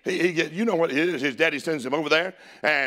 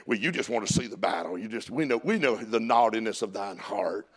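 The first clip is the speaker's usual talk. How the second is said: low, softer knowing put-down; mocking older brothers; 5 semitones lower, 4 dB quieter than usual. Preacher as brothers presuming David's motives, mildly mocking. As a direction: accuse him low and dismissively. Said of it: "they mock him".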